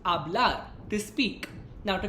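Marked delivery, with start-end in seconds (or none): 0.0-0.6 "Hablar" with the H left silent. Shown as a demonstration. Teacher repeating the verb for learners, silent H in "Hablar". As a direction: drop the H and start "Hablar" on its vowel. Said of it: "where H is silent".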